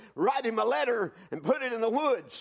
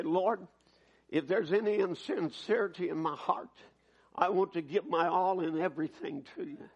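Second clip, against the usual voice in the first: lower, subdued earnest prayer; 4 semitones lower, 4 dB quieter than usual. Shown as a demonstration. Preacher shows the congregation how to approach the Lord, prayer. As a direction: pray it humbly and low.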